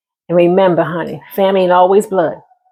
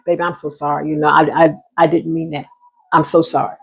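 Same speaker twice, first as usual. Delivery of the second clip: softer, lower imitated apology; retold apology; 5 semitones lower, 3 dB quieter than usual. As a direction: act out a quiet, low "I'm so sorry". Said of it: "when you're really sorry".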